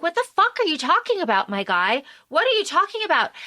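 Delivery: incredulous Mina. Retold or imitated. Mina baffled by Jonathan's panic, high fast disbelief. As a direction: fire it off like she can't believe her ears. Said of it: "And Mina is like".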